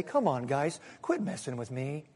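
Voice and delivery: soft, meek, low plea; little rabbit voice. Pretend. God as cocoa-sipping grandfather to rebels, meek little voice. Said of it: "in his lovely little rabbit voice".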